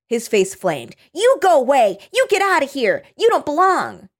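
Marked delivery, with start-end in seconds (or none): 1.1-4.1 high, loud tearful yell; angry child. Acted. Reading Bart yelling at Jory to leave, high shout. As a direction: shout him away like a hurt kid.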